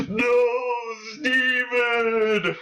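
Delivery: high, long-held mock wail; slow motion. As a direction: cry out as if in a slow-motion rescue. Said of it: "thing of him falling in slow motion".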